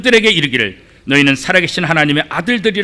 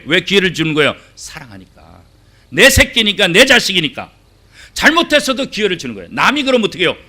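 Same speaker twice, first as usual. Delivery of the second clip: ordinary talk, nothing marked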